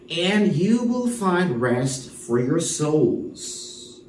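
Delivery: slow scripture reading, "Take my yoke upon you" lifted at the end; rising intonation. Shown as a demonstration. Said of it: "the rise in intonation, to let you know".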